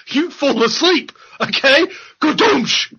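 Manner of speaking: high, goofy stoner voice; mocking a cannabis user's voice, goofy and high. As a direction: play a dopey, happy stoner.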